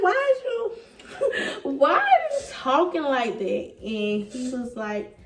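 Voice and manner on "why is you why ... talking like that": high, breaking into laughter mid-question; amused disbelief with a laugh. Retold or imitated. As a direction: giggle through the words. Laughing while retelling his proposal.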